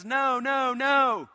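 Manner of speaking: high, loud cries of refusal; preacher playing a panicked victim; acted screaming protest. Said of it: "a kicking and screaming individual".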